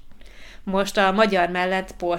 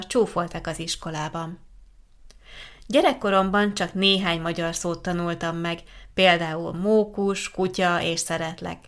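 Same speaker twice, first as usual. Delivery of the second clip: measured, carefully phrased letter reading; letter read aloud. Acted. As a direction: read the letter out clearly for language learners. Reads a learner's letter aloud.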